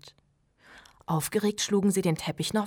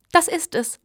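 much higher and louder, voice cracking with excitement; squeaky exclaim; 11 semitones higher, 10 dB louder than usual. A narrator's reading. Steve squeaking with excitement over the hole. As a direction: squeak it out, overexcited. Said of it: "kiekste Steve".

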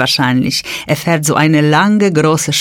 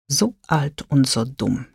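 stunned repeat; 6 dB quieter than usual. Retold or imitated. Sie wiederholt die Worte fassungslos. (leise, fassungslos wiederholt)

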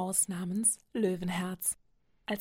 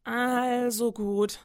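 slow, drawn-out, cheerful goose voice; loud, stretched happy goose honk; 3 semitones higher, 6 dB louder, much slower than usual. Acted. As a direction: give in happily like a chattering goose. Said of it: "schnattert die Gans jetzt fröhlich".

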